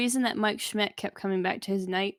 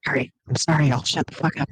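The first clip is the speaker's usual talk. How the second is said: louder, cracking up while apologizing; can't stop laughing through the words; laughing too hard; 5 semitones lower, 7 dB louder than usual. Real, not acted. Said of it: "I'm laughing too hard".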